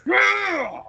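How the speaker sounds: high, loud burst of excitement; loud, high-pitched whoop; excited yell. Real, not acted. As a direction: yell it out, fired up. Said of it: "Yelling, I'm sorry. I'm excited".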